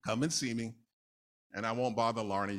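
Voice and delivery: ordinary talk, nothing marked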